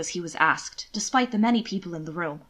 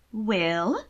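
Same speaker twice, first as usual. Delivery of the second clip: sweetly. Acted. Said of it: "she said sweetly".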